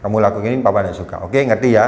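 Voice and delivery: put-on low, steady voice telling a child no; calm firm disapproval. Shown as a demonstration. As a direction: show displeasure gently but firmly. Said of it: "Kita cuma nunjukkan".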